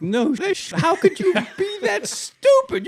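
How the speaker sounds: high, slow disbelieving laugh-cry; mock outrage at a stupid stunt; laughing, rising disbelief; incredulous. Incredulous retort to Grant's story.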